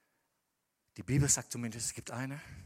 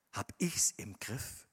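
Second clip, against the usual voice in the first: slow whispered question to oneself; 4 semitones lower, much slower than usual. Acted. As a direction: breathe it as a private doubt. Rhetorical inner voice question.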